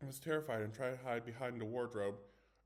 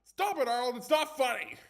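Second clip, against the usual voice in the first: high, much louder frightened yell; angry shout; 14 semitones higher, 13 dB louder than usual. Acted. Scared boy yelling at his teasing friend, loud. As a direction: snap at him to stop, scared. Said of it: "I shouted".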